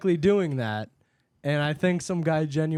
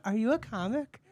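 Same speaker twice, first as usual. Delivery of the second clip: lady customer voice; 6 semitones higher than usual. Retold or imitated.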